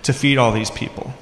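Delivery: snarky, incredulous disciples pushing back on Jesus; sarcastic, are-you-kidding-me tone; snark. Acted. Disciples scoffing at Jesus's order, with snark. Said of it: "You can hear the snark in their voice there".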